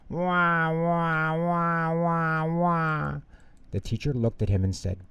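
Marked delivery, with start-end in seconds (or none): 0.1-3.2 put-on high wailing baby cry. A narrator's reading. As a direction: wail like a baby. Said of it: "started to cry".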